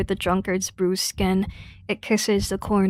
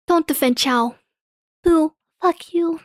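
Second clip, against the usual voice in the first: loud, higher booing; mock heckle; 9 semitones higher, 5 dB louder than usual. Real, not acted. Booing the game character for defending Chow, loud. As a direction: boo the screen like a heckler.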